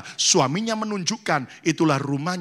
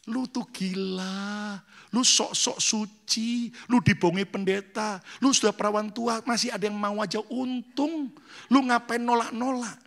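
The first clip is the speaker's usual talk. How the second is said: mocking taunt; 5 semitones higher than usual. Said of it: "temen-temennya ngejek dia".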